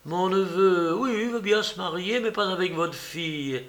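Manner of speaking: lightly acted indignation, falling at the end; incredulous recital. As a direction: voice the absurd message as if aghast. Aunt voices the absurd message.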